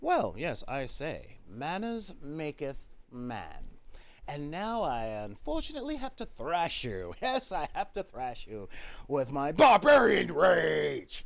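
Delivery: lightly put-on posh English gentleman; prim English accent, building to a shout. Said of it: "spoke as a posh Englishman".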